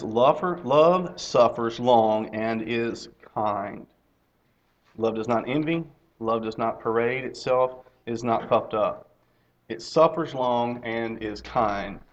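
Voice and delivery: slow, measured Bible reading; scripture reading. Acted. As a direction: read the verse slowly and deliberately. Reads scripture aloud.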